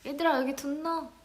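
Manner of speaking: casual Chungcheong dialect call. Retold or imitated. To resting staff, light Chungcheong dialect call. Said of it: "제가 애들한테".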